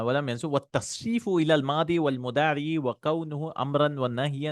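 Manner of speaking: rapid, rattled-off reading of the matn; fast Arabic text recitation. Acted. Teacher reading the grammar text to students, fast recitation. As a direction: rattle through the classical text quickly.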